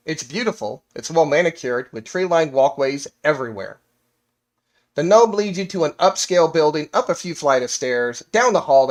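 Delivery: measured storyteller reading aloud; game master narration. Acted. Game master tells players the backstory, storytelling narration.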